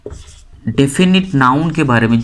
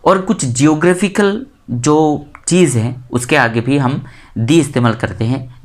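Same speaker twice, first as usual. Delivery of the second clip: ordinary delivery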